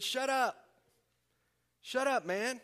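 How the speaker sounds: acted yell telling someone off. Crowd silencing the blind beggar, mock yelling. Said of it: "Many of the people yelled at him".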